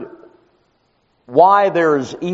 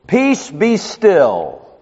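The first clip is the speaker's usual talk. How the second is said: rebuking the storm; 2 semitones higher, much slower than usual. Acted. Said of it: "he rebukes the storm".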